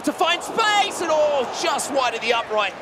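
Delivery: commentator's excited gasp at a near miss; near-miss excitement. Real, not acted. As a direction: caught up in the chance, then let down.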